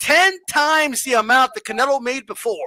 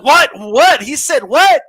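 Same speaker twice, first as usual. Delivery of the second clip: mock shock; 6 dB louder, slower than usual. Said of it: "it's called shock".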